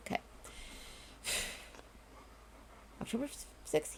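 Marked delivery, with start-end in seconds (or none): 3.0-4.0 breathy whispered aside after a sigh, much softer; whispered question. Real, not acted. Checking the puppy's birthday with someone nearby, whispered. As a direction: ask it under your breath, off-mic.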